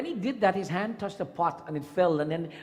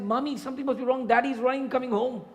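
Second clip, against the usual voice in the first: put-on alarmed child; 7 semitones higher than usual. Daughter alarmed, runs to mother.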